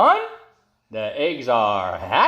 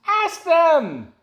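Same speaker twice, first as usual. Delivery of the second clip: shocked. Acted. Elephant shocked at idea.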